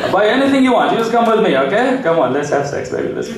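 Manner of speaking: put-on Arab-accented come-on, starting high; flirting Arab accent. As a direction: coax in a mock Arab accent. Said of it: "Have you ever seen Arab guys flirt?".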